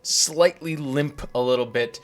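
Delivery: slow dramatic scene setting; scene narration. Acted. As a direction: set the scene slowly, savoring it. GM sets the scene.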